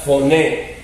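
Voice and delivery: "foné" sounded out with final stress; pronunciation model. Shown as a demonstration. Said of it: "Para que practiquen la pro". ("foné" como modelo, acento en la É)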